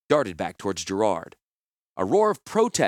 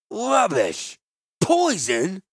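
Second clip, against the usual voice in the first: high, loud outraged yelps; vintner in a pique; 9 semitones higher, 4 dB louder, much slower than usual. Acted. Offended vintner shouts back at Gerard. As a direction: spit each word back in outrage. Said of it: "the vintner shouted in a pique".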